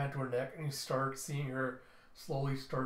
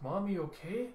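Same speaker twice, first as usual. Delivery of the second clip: put-on little kid; 6 semitones higher than usual. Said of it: "And Mila's like".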